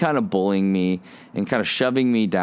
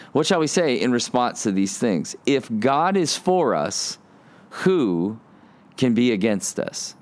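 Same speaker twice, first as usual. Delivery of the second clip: preacher reading Romans aloud; scripture reading. Acted. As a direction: read the verse with weight and pauses. Reads scripture slowly.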